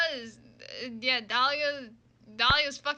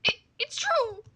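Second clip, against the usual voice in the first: high, loud disbelieving joy; overwhelmed outburst; 7 semitones higher, 6 dB louder than usual. Acted. Terry finding Dahlia alive, overwhelmed outburst. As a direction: cry out as if seeing the dead return.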